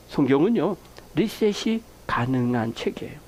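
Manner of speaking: usual speaking voice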